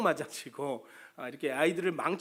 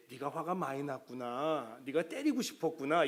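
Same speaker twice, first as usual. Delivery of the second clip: mock soothing. Parent coddling a child who hit someone, mock-gentle. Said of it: "이런다는 거죠".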